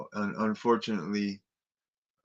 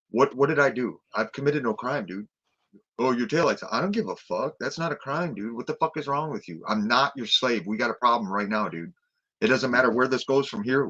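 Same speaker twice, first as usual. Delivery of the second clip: mock angry confrontation; 3 semitones higher, 4 dB louder than usual. Imagined quarrel with arresting cop.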